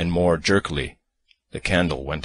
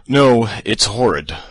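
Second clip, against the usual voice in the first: higher, louder and slow; emphatic disgust; 7 semitones higher, 9 dB louder, slower than usual. Acted. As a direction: stretch it out in revulsion.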